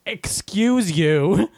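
slow, pointed mock-polite jab; sassy retort. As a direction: drag it out cheekily. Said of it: "reach past the person ... and go".

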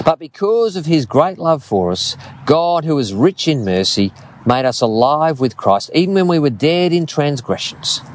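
measured Bible reading to the church; scripture reading. Acted. Reads scripture aloud.

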